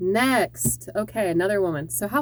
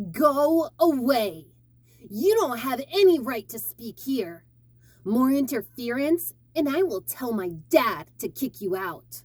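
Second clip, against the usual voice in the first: put-on bratty, arrogant, mean little boy voice; 3 semitones higher than usual. Practicing a voice for a kids' character, an arrogant, mean little boy. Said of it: "This is an arrogant boy that's kind of mean".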